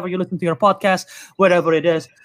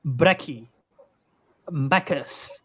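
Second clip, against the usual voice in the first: Australian abbreviations, lower and softer; Australian slang demo; 6 semitones lower, 6 dB quieter, much slower than usual. Shown as a demonstration. Reading Australian-speech tips to co-hosts, Australian slang demo. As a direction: read out Aussie short forms one by one. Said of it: "abbreviate everything".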